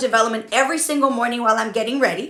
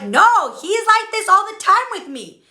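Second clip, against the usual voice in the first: mock indignant protest; 6 semitones higher than usual. Recalling how she complained to her coach at the wedding, high mock exasperation. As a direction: voice jumps high, imitating her own complaint.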